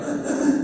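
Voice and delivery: high, gasping imitation sobs; imitated weeping gasps; mock sobbing. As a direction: sob in short gasps, imitating her.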